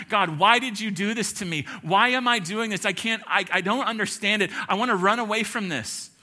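mild imitation of a desperate prophet; crying out to God. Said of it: "crying out to God".

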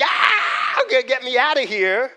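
high, loud panicked cry to be let go; panicked shout. Retold or imitated. Boy smothered by grieving grandmother, shouting in panic. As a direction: yell like a smothered boy desperate to escape. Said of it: "I'm like".

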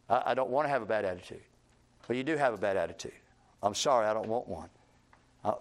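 contrite apology. Acted. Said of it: "you say to them".

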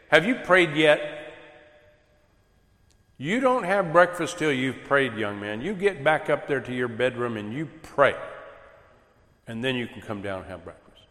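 lightly voiced scolding parent barking orders; mock stern Southern parent telling a son to go pray. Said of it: "sounding like a Southern somebody".

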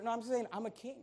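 ordinary talk

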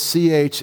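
ch as a raspy scrape in the throat; ch like clearing the throat; throaty ch sound. Shown as a demonstration. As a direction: rasp ch at the back of the throat. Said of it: "a letter that makes you say that".

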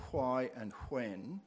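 "why" and "when" begun with a breathy hw; old-fashioned "wh". Shown as a demonstration. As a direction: say "why" and "when" as hwy and hwen. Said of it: "Gee, he sounds funny".

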